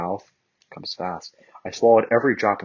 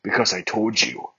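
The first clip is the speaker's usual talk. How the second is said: seductive. Acted. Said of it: "he chuckled seductively".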